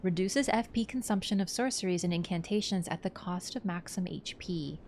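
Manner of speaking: slow, measured lore narration; item description reading. Acted. Streamer reading a glintstone blade's description to viewers, measured narration. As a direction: read it out slowly and deliberately.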